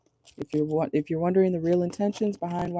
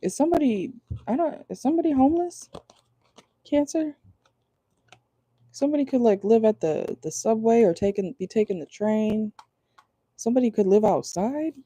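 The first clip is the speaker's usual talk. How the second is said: high surprised disbelief; 4 semitones higher than usual. Real, not acted. Shocked by homeless card.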